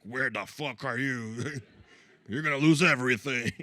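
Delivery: the app mascot guilting you for missing a day; menacing Duolingo owl. Retold or imitated. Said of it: "like dating the little bird from Duolingo".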